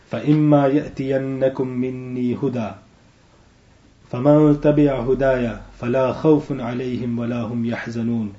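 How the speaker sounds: swift chanted Arabic verse, no pauses; تلاوة سريعة; rapid Quran recitation. Acted. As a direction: run the verse out quickly in one breath.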